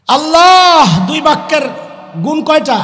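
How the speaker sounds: rising sermon call. Real, not acted. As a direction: call out to the whole hall. Preacher calls out to crowd.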